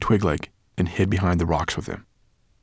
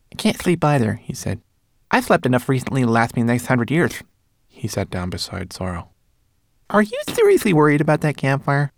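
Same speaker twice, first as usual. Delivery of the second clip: Twigleg voice; 6 semitones higher, 6 dB louder than usual. Acted. Twigleg high voice.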